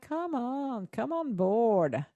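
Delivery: playful urging, stretching the words out; coaxing plea. Retold or imitated. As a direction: beckon the listeners to join in. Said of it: "It's like".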